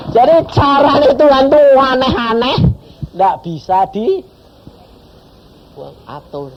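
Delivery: slow, loud and high, still laughing; exclaiming with amusement to the congregation; excited exclaiming. Real, not acted. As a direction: marvel at God's odd ways aloud.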